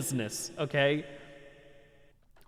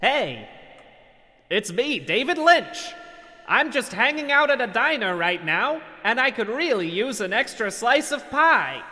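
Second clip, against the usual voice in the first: David Lynch impression; 8 semitones higher, 5 dB louder than usual. Streamer mocks a scammer posing as a famous director. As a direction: play a dreamy, eccentric director. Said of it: "That's my David Lynch impression".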